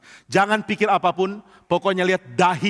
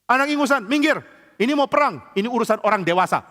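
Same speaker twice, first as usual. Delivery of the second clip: mocking giant; 6 semitones higher than usual. Goliath jeers at the young boy David, sneering giant voice. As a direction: look down on the boy and wave him off.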